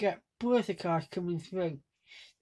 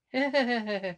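light laugh through a smile; smiling laugh; 3 semitones higher than usual. Shown as a demonstration. Vlogger showing laughing with a smile, light laugh. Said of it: "laughing with smile".

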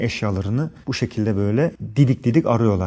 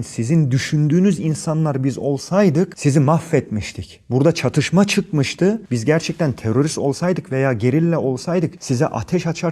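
raised, heated voice pushing back at the police; retold firm protest; 4 semitones higher than usual. Telling the police officers off, heated and raised. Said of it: "dedim yani".

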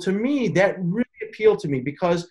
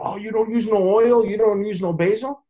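mock disbelief; 6 semitones higher than usual. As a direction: play the doubting customer, amazed.

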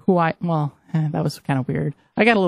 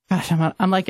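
slightly winded after running upstairs; a little breathless, catching air; out of breath. Real, not acted. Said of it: "I'm a little out of breath".

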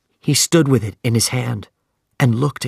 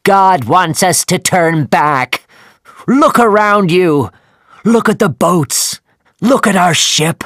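pleading shout; 8 semitones higher, 7 dB louder than usual. Acted. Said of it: "And Starbuck shouted at Captain Ahab".

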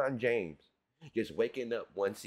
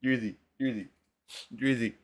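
calling out; 5 dB louder than usual. Real, not acted. Calling a rapper by name.

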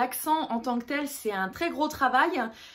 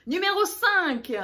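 raised, emphatic ranking call; countdown announcement; 6 semitones higher than usual. Real, not acted. Countdown of top five accents.

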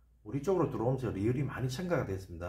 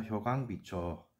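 slow careful demo; 3 semitones lower, 7 dB quieter, much slower than usual. Shown as a demonstration. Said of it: "우리말로 효강 비초입니다".

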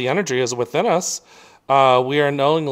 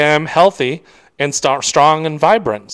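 confident affirmation; 5 dB louder than usual. Shown as a demonstration. Coach showing listeners a health affirmation, loud and firm. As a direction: proclaim it like you mean it, unhurried. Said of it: "You could also say".

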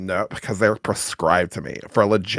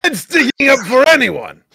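mock proud declaration; 13 semitones higher, 3 dB louder than usual. Defending self in chat, high mock proclamation. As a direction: proclaim it very high, stretching the rhymes.

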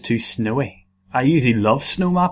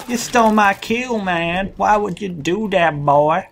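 mock outrage; 6 semitones higher than usual. Real, not acted. Complaining at teammate.

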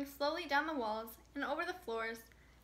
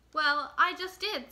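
louder and slow, each word pressed; insistent; 3 semitones higher, 8 dB louder, slower than usual. Acted. Little Mouse insisting to Mole who laughs at her, loud and slow. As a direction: put your foot down, slowly and firmly.

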